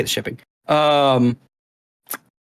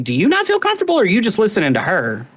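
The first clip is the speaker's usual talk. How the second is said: sarcastic jab; 5 semitones higher than usual. Retold or imitated. Sarcastic retort to waitress.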